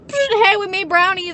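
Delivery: high, loud, slow sing-song mom; imitating cheery mom. Mom barging in with brownies, high cheery mock voice. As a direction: chirp it like mom bursting in. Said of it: "My mom just fucking".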